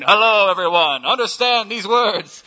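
mock booming loudspeaker God; megaphone of heaven. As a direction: broadcast it over a heavenly megaphone. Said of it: "he takes the megaphone of heaven".

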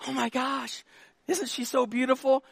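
soft, lightly voiced admiring wife; wife admiring another girl. Wife to husband about another girl, softly gushing. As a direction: gush quietly, like a wife testing him. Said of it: "she points at another girl and says".

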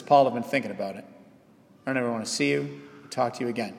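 soft, hurried, low-key brush-off; quiet rejection. Retold or imitated. Susan telling Paul she is leaving him, quiet rejection. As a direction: say it fast and hushed, as a personal blow. Imagined Susan gently breaks it off.

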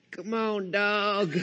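put-on soft child's echo of a Texan drawl; imitating young daughter. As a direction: quietly mimic a kid copying her dad. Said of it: "my middle daughter had been standing there".

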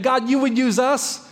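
lifted high in amazed disbelief; awed wonder. Retold or imitated. Pastor voicing awe to God that He would use us, amazed. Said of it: "a sense of awe and wonder".

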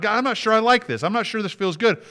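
high-pitched, candid plea to God; acted-out protest in prayer; honest complaint prayer. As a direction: voice your doubts upward, slowing at the end. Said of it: "go to the, go to God".

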